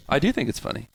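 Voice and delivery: casual, offhand admission; nonchalant. Real, not acted. Insisting to friends it is funny, nonchalant. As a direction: concede it without any fuss. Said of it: "You said it so nonchalant".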